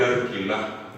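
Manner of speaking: "alquilá" with an R in place of the L; Guaraní speaker's R in "alquilá". Shown as a demonstration. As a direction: say "alquilá" as "arquilá". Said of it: "La L no existe en guaraní".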